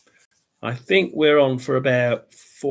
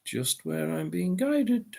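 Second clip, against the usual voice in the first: whispering; 5 semitones higher, 6 dB quieter, slower than usual. Shown as a demonstration. Repeats line as a whisper.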